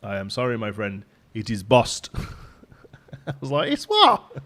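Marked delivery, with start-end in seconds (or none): 0.0-2.1 light, careful attempt at a Dominican accent; half-attempt a Dominican accent, evenly worded. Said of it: "can't really do the accent". 3.7-4.4 high, loud incredulous question. Retold or imitated. Startled reply to odd word.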